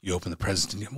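low imitation of a knowing mother; stern mom. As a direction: lightly voice mom pressing for a confession. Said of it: "She's like".

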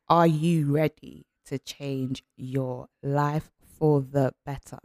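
slow, weighted question; slow it down so it sinks in; slow emphasis. Shown as a demonstration. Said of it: "repeated slowly".

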